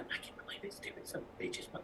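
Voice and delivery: fast, whispered, barely audible hushed grumble. Player voices Charlotte bad-mouthing others, mumbling under her breath. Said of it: "starts mumbling under her breath".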